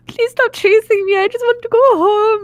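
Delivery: put-on high, pleading Oil Roo accent, close to tears. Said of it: "in full Oil Roo accent".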